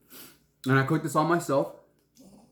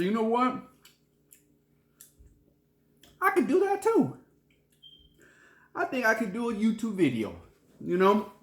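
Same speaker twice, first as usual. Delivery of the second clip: retold thought; 10 semitones higher, 3 dB louder than usual. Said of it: "And I said".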